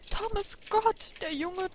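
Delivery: high and loud, drawing out the name; an old man glad to see a boy grown up; delighted old clockmaker. Acted. Clockmaker greets returning young Thomas, high and delighted.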